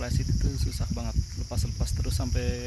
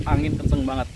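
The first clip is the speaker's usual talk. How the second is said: raised voice over gusts; shouting over wind; 6 dB louder than usual. Real, not acted.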